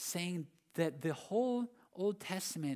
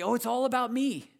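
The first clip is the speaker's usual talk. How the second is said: mock self-centred; 7 semitones higher, 9 dB louder than usual. Voicing a self-centred reader.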